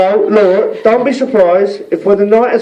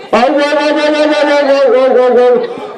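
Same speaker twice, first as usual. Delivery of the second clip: mock halt; 7 semitones higher than usual. Mock stopping the toast.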